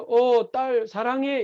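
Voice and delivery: drawn-out, gentle words; a lightly voiced father, very slowly; slow tender father. The father's avatar tells his daughter he loves her, slow and tender. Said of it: "이러니까".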